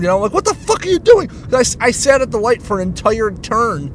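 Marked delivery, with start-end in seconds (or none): 0.3-1.3 high exasperated mock yell; retold scream. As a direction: re-enact yelling at a stalled driver. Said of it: "I screamed".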